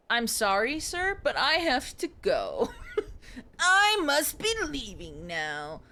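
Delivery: hammed-up frightened excuse to leave; mock nervous exit. Character fleeing the witch talk.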